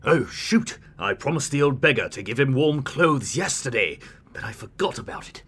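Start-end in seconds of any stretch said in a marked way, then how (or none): 0.0-0.8 higher sudden oh shoot; sudden dismay. Acted. King remembering his forgotten promise to the beggar, dismayed. 4.3-5.4 softer whisper to himself. Acted. King admitting to himself he forgot, whispered.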